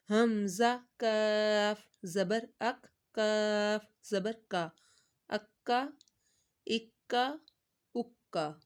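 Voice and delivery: کاف said light and thin at the front; teacher shows students the thin کاف; thin kaf. Shown as a demonstration. اکا with a light thin k. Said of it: "اس کو پتلی sound میں پڑھنا ہے".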